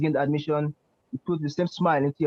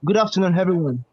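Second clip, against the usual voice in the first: louder, emphatic repeat; 2 semitones higher, 5 dB louder than usual. Real, not acted. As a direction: say it again so they hear. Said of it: "I said".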